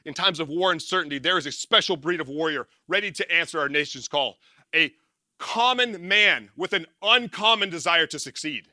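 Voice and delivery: emphatic recital, slowing into the last phrase; creed recitation. Acted. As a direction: declaim the creed, landing hard on the ending. Recites the Navy SEAL creed.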